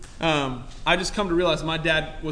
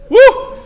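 high, loud whoop with a laugh; joyful whoop; 12 dB louder than usual. Real, not acted. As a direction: let out a happy shout. Preacher whoops with joy.

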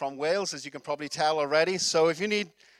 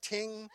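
softer mimicked guitar "ting"; imitated wrong note; 3 semitones higher, 9 dB quieter than usual. Retelling the guitarist's bad start, a soft off-key ting. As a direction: let a soft sour guitar note ring. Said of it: "got off on the wrong note".

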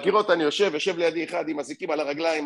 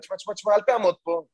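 mildly mimicked yelling, a bit raised; retold shouting; 4 semitones higher, 4 dB louder than usual. Policewoman orders driver away, mock yelling. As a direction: imitate a policewoman ordering someone to move. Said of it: "למה את צועקת".

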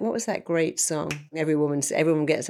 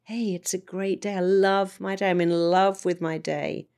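cheerful; 2 semitones higher than usual. Retold or imitated. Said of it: "I wake up every day and say".

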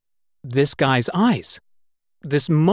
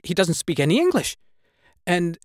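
usual speaking voice

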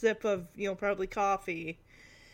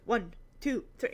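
counting fast. Retold or imitated. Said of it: "No, you have to do it slower".

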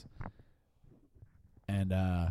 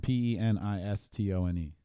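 spelling it out. Shown as a demonstration. Spelling the word letter by letter.

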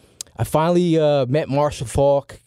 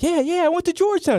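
eager fib; faster than usual. Retold or imitated. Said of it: "I'm like".

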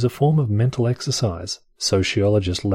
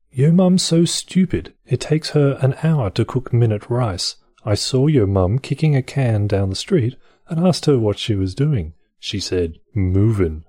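put-on posh English accent; 3 semitones higher than usual. Reading yo mum jokes aloud, mock posh English accent. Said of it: "I'm doing posh accent again".

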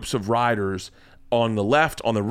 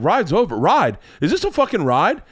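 dad's indiscreet outburst; 4 semitones higher than usual. Retold or imitated. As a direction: imitate an incredulous dad, pitch jumping up. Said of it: "no ability to talk in, like, a secret".

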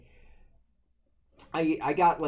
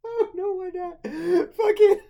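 high-pitched uncontrollable laughing fit; helpless laughter; 6 dB louder, slower than usual. Real, not acted. Cracking up at the co-host's joke, helplessly laughing. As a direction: squeal words out through hard laughter.

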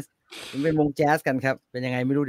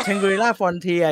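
spelled-out title; 3 semitones higher, much slower than usual. Shown as a demonstration. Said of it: "ใช้ชื่ออังกฤษดีกว่าพี่".

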